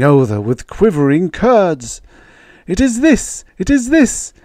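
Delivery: high, dread-filled warning; dire warning. Retold or imitated. Baker voicing his uncle's ominous warning, high and fearful. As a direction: warn with mounting dread.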